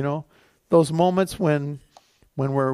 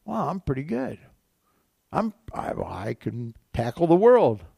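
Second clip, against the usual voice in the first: mild mock self-satisfied brag, pitched higher; proud boasting; 3 semitones higher than usual. Preacher mimics a proud believer, mildly boastful. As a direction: lightly act out puffed-up pride. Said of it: "you can get a lot of pride about".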